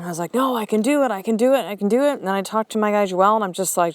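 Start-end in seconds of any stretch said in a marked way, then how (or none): 0.3-2.2 quick, repeated self-convincing protest; mock stubborn insistence; insistent. Telling herself the task will get done, insistent. Retells insisting she can manage.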